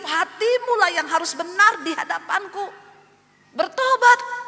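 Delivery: high, loud divine rebuke, building; voice of God. Retold or imitated. God rebuking the woman for her threats, loud and commanding. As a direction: proclaim it with commanding force, rising to a peak. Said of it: "Tuhan bilang".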